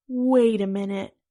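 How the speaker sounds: loud dopey grin in the voice; goofy smile. A narrator's reading. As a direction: say it with a stupid grin. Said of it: "with a stupid smile".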